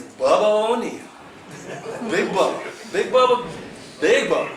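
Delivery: loud, high announcer-style Big Bubba; hyped-up name call. Acted. Bigging up the Wyoming angler, loud and high. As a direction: boom out his name like a ring announcer.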